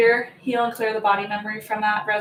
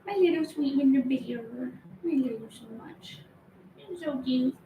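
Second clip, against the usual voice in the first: cooing at a pet; 3 semitones higher, 6 dB quieter than usual. Real, not acted. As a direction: coo at your little bear. Cooing at her dog.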